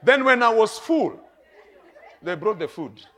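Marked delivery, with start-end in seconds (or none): 0.0-1.2 sudden loud burst, higher; loud exclaim. Real, not acted. Preacher booming to the church about being full. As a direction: throw it out big to the congregation.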